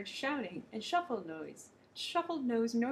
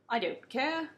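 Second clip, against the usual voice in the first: mild scream; 4 semitones higher, 5 dB louder, slower than usual. Acted. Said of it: "the king screamed".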